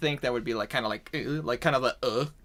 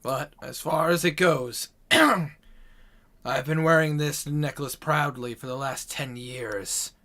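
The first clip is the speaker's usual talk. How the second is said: measured, lightly voiced character, slow at first; proud demon-slayer; slower than usual. Character resumes his account.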